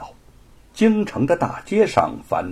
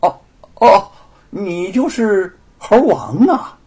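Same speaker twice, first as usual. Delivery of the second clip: softening tone; 9 semitones higher, 7 dB louder, slower than usual. Acted. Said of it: "语气呢就稍转和缓地说".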